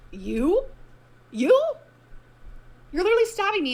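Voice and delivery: high, loud disbelief; outraged. Real, not acted. Mocking the ex's claim, the host shouts in outrage. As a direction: scoff at the claim.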